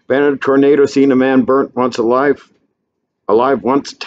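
rising through the list, biggest at the tornado; lightly voiced drifter boasting; misfit's boast. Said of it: "Annie says".

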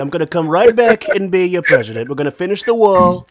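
Trump. Retold or imitated. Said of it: "He's doing Trump".

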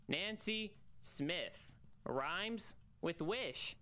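slow, drawn out teasing rhyme; singsong rhyme. Acted. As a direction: drag the rhyme out playfully. Sing-song rhyme, very slow.

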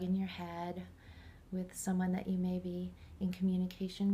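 calm guided meditation voice. Real, not acted. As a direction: guide the listener inward, unhurried.

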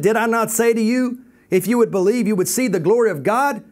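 mildly exasperated, pitch lifted; frustrated. Retold or imitated. Jesus answering Martha at the tomb, mildly frustrated. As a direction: push the point with a touch of frustration. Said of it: "He's in a frustrated mood at this point".

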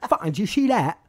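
put-on Essex accent. Friend Paul after the gig, in a mock Essex accent. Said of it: "that's my impression of an Essex accent".

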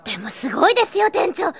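loud, high, fast gushing; excited praise. Acted. Staff gushing to the manager after the thug leaves, excited. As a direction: burst out in admiration.

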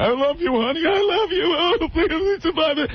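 high pleading mock-emotional voice, slowing at the end; mock dying husband. Mocking Paul Reiser's sitcom deathbed scene, high hammed-up pleading. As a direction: ham up a dying man's plea. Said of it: "and he's going".

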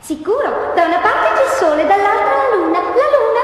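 echo voice. Acted. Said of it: "Sono l'eco".

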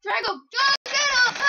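loud, high call to the dog; excited command. Real, not acted. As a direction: sic him, loud and eager.

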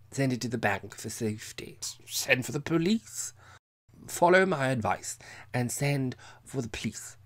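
urgent tipsy whisper. A narrator's reading. Drunk Captain whispering advice to Miss Mapp. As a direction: hiss the warning like a secret.

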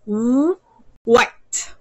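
"Woo, white." with the sound split apart first; by syllables. Shown as a demonstration. Teacher splitting the word for the student. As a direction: break "white" into "woo" then the full word. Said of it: "have it by syllables".

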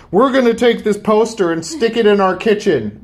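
lightly voiced bossy announcement; imitating his wife. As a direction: lay down the plan as the wife. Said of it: "She's like".

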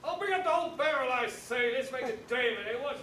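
loud, quick and jovial; hearty enthusiasm. Acted. Host grandly offers to fetch the whole barrel, hearty enthusiasm. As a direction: boom it out with gusto.

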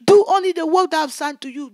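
loud, fast repeat of the command; the Lord repeating the charge, loud and fast; voice of the Lord, hurried. Retold or imitated. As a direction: press it home quickly. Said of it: "He said, "My daughter".

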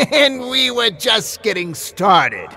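high, loud and slow, savouring it; slow puppet villain. Acted. Ashy Slashy lamenting the puppets' escape, slow high villain voice. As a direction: drawl it out like a disappointed killer puppet. Ashy after his laugh.

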